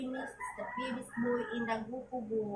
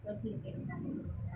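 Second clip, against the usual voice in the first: whispered; 2 semitones lower than usual. Real, not acted. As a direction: say it again in a whisper.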